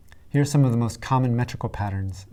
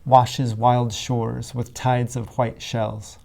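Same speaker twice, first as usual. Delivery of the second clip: slow, measured line of poetry; musical verse reading; slower than usual. Shown as a demonstration. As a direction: linger on each sound of the phrase. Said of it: "makes us hear a particular music".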